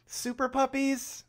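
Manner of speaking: a reporter who can't believe this; mock unimpressed; fed-up disbelief. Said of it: "She's just like".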